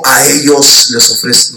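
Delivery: slow, low voice of God; a touch of booming thunder; thunderous voice of God. Retold or imitated. Preacher voicing God like thunder. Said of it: "como una voz de trueno".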